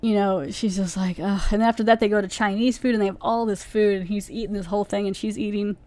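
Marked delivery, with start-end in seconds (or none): 1.2-1.4 mock groan of disgust; disgusted ugh. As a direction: let out a small, retold "ugh". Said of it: "being disgusted with him".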